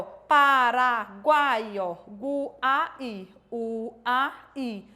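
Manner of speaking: Paraguai stretched out, then Guai and Uai split off slowly; teacher slowly breaking Paraguai into its sounds; slow syllable demo. Shown as a demonstration. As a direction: sound out Paraguai bit by bit for the class. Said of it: "Então, tá aqui".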